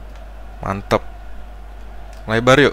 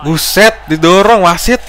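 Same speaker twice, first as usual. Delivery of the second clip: loud, higher cry of disbelief; indignant shout; 6 semitones higher, 5 dB louder than usual. Real, not acted. Gamer reacts to a player shoved into the referee, indignant shout. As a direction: shout at the screen as the referee gets knocked over.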